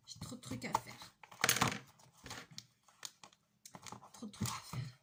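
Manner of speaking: whispered lament, repeated to herself; overwhelmed whisper. Real, not acted. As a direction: sigh it out under your breath, swamped. (chuchoté, débordée)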